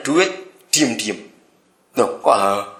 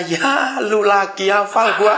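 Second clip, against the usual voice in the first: unbothered retort; 2 semitones higher, slower than usual. Pretend. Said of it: "harusnya berkata".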